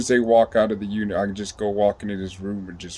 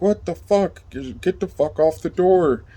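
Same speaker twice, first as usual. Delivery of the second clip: high-pitched mock yell of a guard; angry guard; 8 semitones higher than usual. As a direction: imitate an irritated guard without real volume. Annoyed guard voiced at banging.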